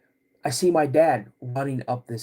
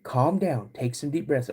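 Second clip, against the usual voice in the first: retold soothing. Dad soothes his crying son.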